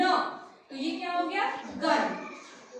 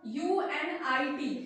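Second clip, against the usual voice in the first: slow spelling out; 2 semitones lower, slower than usual. Shown as a demonstration. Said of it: "इसको पढ़िए".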